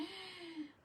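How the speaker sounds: high, sudden intake of breath; real gasp at a slip; startled gasp. Real, not acted. Crafter who wasn't paying attention, startled gasp. Distracted while working on craft.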